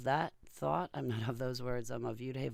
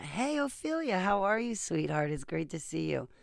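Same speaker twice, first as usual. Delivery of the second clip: much higher, sweet greeting to the pet; 7 semitones higher, 4 dB louder than usual. Real, not acted. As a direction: coo at the cat.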